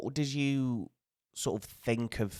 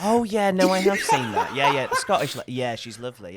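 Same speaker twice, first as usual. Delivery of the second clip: imitating an overeager guard, high and loud; high mock fan; 5 semitones higher, 6 dB louder than usual. To border guard imagined gushing about the show, high and loud. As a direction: squeal it like a gushing fan, laughing. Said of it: "expecting him to go".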